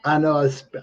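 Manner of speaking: speaking without dentures; lisping, gummy speech with no teeth in; toothless. Real, not acted. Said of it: "I'm speaking a little bit funny".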